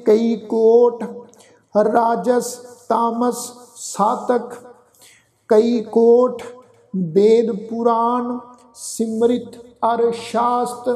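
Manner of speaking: slow, measured verse recitation; deliberate chant-like reading with pauses; scripture recitation. Shown as a demonstration. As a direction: recite line by line with held final syllables.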